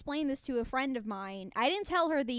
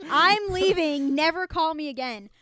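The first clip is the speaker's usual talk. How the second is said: mock storming off; 3 semitones higher, 6 dB louder than usual. Acted storming-out quote.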